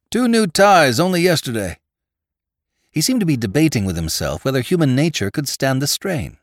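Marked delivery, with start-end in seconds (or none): 0.1-1.8 moaning. Acted. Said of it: "was overheard to moan".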